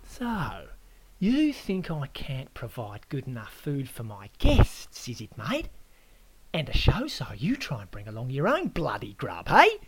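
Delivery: grind it out, then explode; indignant Aussie host. Acted. Host Aaron accuses the guest of insulting his food, building angrily.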